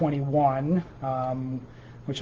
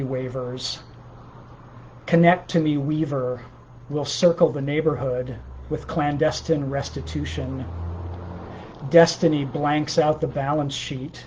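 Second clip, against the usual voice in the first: measured poem recital, each phrase falling at the end; poetry reading. Acted. Poet reading dream-born improvisations to livestream listeners, measured recital. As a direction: read each line as its own unit, pausing between. Reads own poem aloud.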